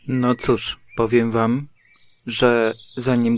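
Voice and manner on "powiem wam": ordinary delivery, nothing marked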